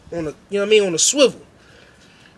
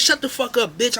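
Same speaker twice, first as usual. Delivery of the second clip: angry yell; 7 semitones higher than usual. Retold or imitated. Narrator shutting down the girls heckling him, angry yell. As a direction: cut them off with a shout.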